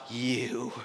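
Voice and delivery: slow, seething inner voice, starting very soft; drawn-out, held-in exasperation; suppressed anger. Retold or imitated. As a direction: act out biting back fury, word by word. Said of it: "bit my bottom lip so hard".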